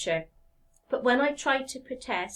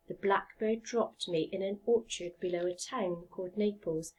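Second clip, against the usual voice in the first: gentle storybook reading voice; story narration; 2 semitones lower than usual. A narrator's reading. Teacher reading a story to her class, gentle storybook narration. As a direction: read it like a bedtime story.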